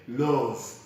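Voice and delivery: "love" with a round O, lov; "love" con la o chiusa, lov; wrong love. Shown as a demonstration. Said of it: "we don't say".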